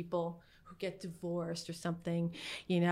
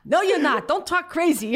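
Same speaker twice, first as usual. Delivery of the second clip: much louder, higher mock scolding; old man scolding; 10 semitones higher, 11 dB louder than usual. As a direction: shout him down like a cranky old man. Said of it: "he's like".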